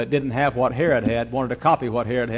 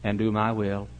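quiet solemn warning; 5 semitones lower, 7 dB quieter than usual. Acted. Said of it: "Then he said again".

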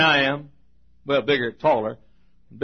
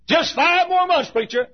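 higher, eager student voice, counting down; eager countdown; 11 semitones higher than usual. Retold or imitated. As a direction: count the months down with rising hope.

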